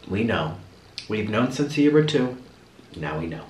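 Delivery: soft, low imitation of a weary dad; underplay it like a parent who has long known; resigned. Dad to his tearful child, quietly resigned. Dad's resigned answer about her crying.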